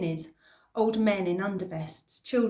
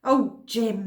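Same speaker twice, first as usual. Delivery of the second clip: calling across; 2 semitones higher, 7 dB louder than usual. Acted. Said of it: "called across the street".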